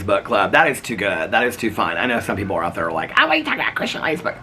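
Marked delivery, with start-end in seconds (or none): 3.2-4.3 high, scoffing mock of her doubters; mock disbelief. Viewers scoffing at her book club joke, high mock disbelief. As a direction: sneer it like a doubter who thinks she is making it up.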